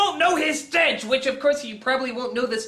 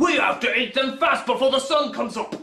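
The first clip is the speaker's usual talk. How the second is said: giant troll voice; 2 semitones lower than usual. Acted. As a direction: bellow it like a hungry giant. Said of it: "And the Shreks are like".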